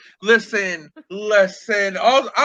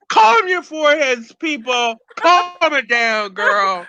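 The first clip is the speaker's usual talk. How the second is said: higher, slow mock soothing; mock calming; 3 semitones higher, slower than usual. Host mock-calming the rowdy studio crowd, higher and slow. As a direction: hush the crowd like a talk show host. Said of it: "I'm like".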